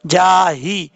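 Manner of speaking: जाही with a full, heavy h. Shown as a demonstration. Teacher demonstrating the letter, heavy chesty h in जाही. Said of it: "हा भारी sound के साथ पढ़ा जाएगा".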